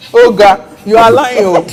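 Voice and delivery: teasing accusation. Retold or imitated. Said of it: "he said".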